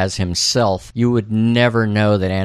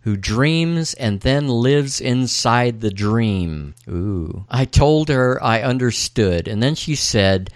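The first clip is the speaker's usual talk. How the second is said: slow, portentous dramatic reading; ancient-phrase recital; 2 semitones higher, slower than usual. Acted. Podcaster quoting the dream's ancient phrase, portentous. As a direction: draw the words out like a riddle.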